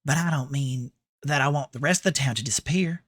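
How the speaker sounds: lovestruck Southern girl, lightly put on; feminine Southern accent. Streamer reading Rinko's secret journal, feminine Southern accent. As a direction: read it as a Southern belle's diary. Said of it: "putting on a bit more of a".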